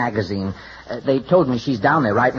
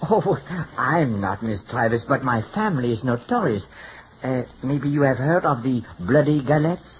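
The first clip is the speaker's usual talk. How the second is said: put-on French hairdresser accent; phony French accent; 2 semitones lower than usual. Hairdresser apologizing to his client, phony French accent. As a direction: speak with a fake French accent. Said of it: "without the phony French accent".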